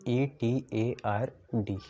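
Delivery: very slow letter-by-letter dictation; unhurried classroom spelling; spelled out slowly. Shown as a demonstration. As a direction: draw out each letter separately. Spelling it again for students.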